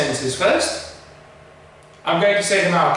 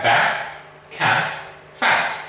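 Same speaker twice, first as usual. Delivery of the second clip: British "bat", "cat", "fat" with a softer vowel; 7 semitones lower, much slower than usual. Shown as a demonstration. Teacher showing British English, a softer vowel. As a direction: ease into a gentler British a. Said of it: "it would be a softer sound".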